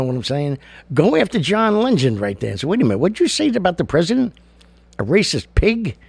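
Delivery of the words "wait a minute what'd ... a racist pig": high, fast challenge; mock confrontation. Reporter confronting a singer, quick and indignant. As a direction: demand an answer from him.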